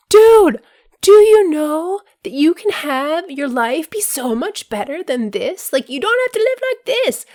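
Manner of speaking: high, loud excited calling out; mock rooftop shout. Podcaster shouting her pitch to listeners, high and loud. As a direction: shout it like an eager evangelist. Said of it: "shout it from the rooftops".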